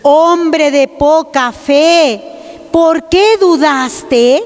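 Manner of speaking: slow, solemn rebuke; solemn Jesus. Retold or imitated. Jesus to the sinking Peter, slow solemn rebuke. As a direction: drag each word out like a grave reproach. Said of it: "le agarró y le dice".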